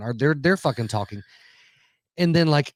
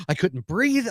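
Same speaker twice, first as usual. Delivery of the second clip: breathless panic; 6 semitones higher, slower than usual. Retold or imitated. Retelling a panic attack.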